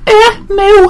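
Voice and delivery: high, hammed-up scouse "Eh, moo"; scouse cow moo. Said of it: "That heavily scouse cow".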